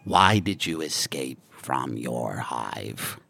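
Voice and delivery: deep, slow alien clicking; guttural clicking language. Acted. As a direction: growl it low and slow. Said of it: "guttural clicking language".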